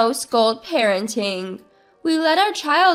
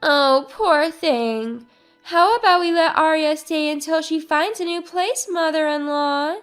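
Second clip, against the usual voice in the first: feigned pity; 3 semitones higher than usual. Acted. Wife feigning pity for Aria to her mother-in-law. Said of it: "feigning pity".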